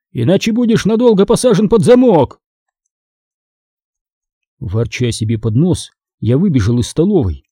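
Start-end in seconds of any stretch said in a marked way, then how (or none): 0.1-2.4 higher-pitched mild scolding; stern threat. A narrator's reading. Father threatens to ground son, sternly. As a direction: warn him with firm finality. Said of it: "оборвал меня отец".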